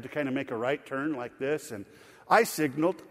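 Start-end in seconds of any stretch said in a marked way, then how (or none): 2.3-3.0 assertive, matter-of-fact; confident claim. Acted. Driver insists on having signaled, confident claim. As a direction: state it firmly and clearly. First claim, then doubting aside.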